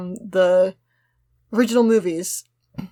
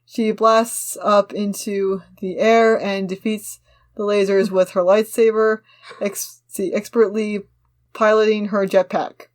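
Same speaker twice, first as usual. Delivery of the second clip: measured, slightly slow action-line reading; script narration read-aloud; slower than usual. Acted. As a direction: read the scene description steadily to the friend. Reads script action lines.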